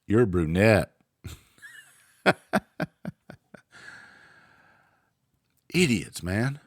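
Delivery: sipping coffee between words; slurping coffee. Real, not acted. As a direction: talk around a sip of coffee. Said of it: "Sorry for slurping my coffee".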